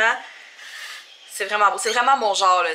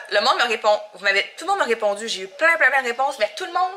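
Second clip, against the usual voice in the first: ordinary talk, nothing marked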